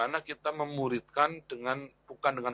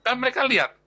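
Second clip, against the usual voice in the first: emphatic rise; 10 semitones higher, 6 dB louder, faster than usual. Real, not acted. Stresses children watch failures.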